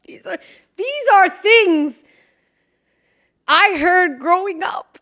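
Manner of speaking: high, slow, breathy through laughter; laughing whisper. Real, not acted. Still laughing while explaining the phrases, high whisper. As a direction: giggle the words out.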